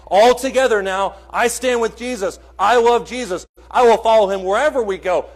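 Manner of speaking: loud, rousing pledge of loyalty; mock rally cry. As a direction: proclaim it like a crowd chanting a vow.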